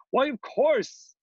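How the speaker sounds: high, drawn-out delighted realisation; gleeful king. A narrator's reading. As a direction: exclaim it as the idea dawns, no laugh. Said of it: "he began laughing".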